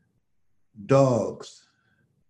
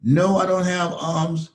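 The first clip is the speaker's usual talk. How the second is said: higher, lightly voiced teasing declaration; playful mock defiance; 4 semitones higher than usual. Les teasing the host, voicing him, mock defiant. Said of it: "You decided".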